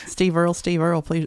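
imitating the song's Southern accent. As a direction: quote the hook with a Southern twang. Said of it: "In that accent".

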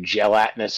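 "gelatinous" with the stress misplaced; oddly stressed GELATINOUS. Real, not acted. Describing a suspicious jelly explosive, "gelatinous" oddly stressed. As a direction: say "gelatinous" with the wrong syllable stressed. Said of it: "Oh, I said that weird".

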